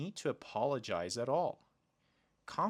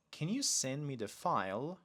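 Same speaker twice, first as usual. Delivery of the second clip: polite question with rising end; polite request; 2 semitones higher than usual. Shown as a demonstration. Teacher showing learners a better request, polite and rising. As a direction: ask it politely, lifting toward "file". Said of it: "Much better".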